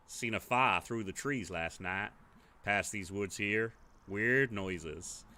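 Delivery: lightly voiced weathered local, slow and guarded; a hint of a wary old-timer telling of the fire; gruff villager. Villager telling the players about the fire, lightly gruff.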